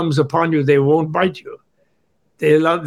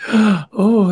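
mock fearful gasp; 5 semitones higher, 3 dB louder than usual. Gasp in acted fear of void.

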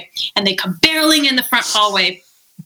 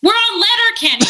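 Dio's explanation; 6 semitones higher than usual. Retold or imitated. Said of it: "She's like".

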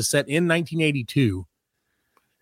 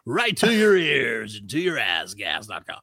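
radio DJ voice; slower than usual. Pretend. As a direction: spin it like a morning radio host. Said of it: "You should do like, this morning's hits".

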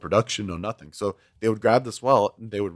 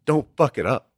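blunt; 4 semitones higher than usual. Retold or imitated. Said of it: "he was just blunt about it".

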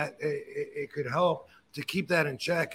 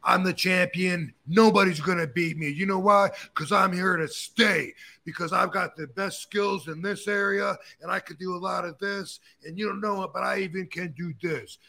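wrestler promo boast; 3 semitones higher than usual. Retold or imitated. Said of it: "every wrestler promo is about an ego".

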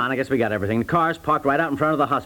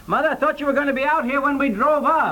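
exasperated yell at mother; 11 semitones higher than usual. Acted. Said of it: "Don't yell at her like that".

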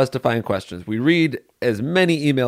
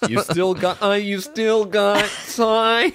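teasing sing-song; 8 semitones higher, slower than usual. Pretend. Teasing about being old.

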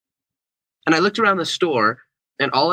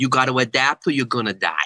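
put-on New York accent. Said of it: "he had this thick New York accent".

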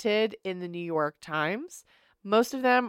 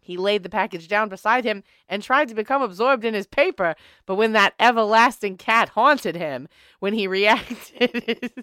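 put-on old-timey voice. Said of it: "use the old-timey voice".

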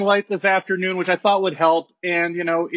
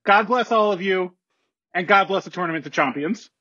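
formal announcement. Acted. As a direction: read it like a commissioner at a podium. Commissioner's formal statement.

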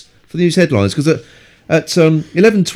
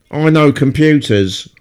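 mock whiny know-it-all boy; a hint of a whiny geek; slower than usual. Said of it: "whiny voice".

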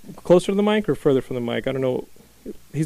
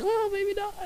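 deflated self-mockery; 5 dB quieter, slower than usual. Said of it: "I'm like".

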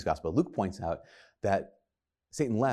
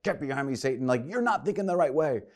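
mock-angry rebuke, pitched up; miffed, frustrated; 4 semitones higher than usual. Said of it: "he's angry, that he's really frustrated".

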